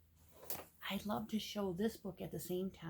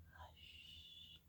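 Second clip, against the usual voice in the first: whispered good night and hush; whispering; 19 dB quieter than usual. A narrator's reading. Reading the old lady's hush, whispering. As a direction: breathe it out like the old lady. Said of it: "old lady whispering".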